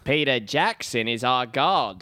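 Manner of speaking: mock New Zealand accent. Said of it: "I think I just do a New Zealand accent".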